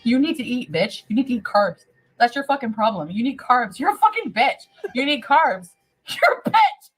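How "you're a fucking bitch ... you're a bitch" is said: high laughing insult. Real, not acted. Drunk streamer yelling insults at viewers.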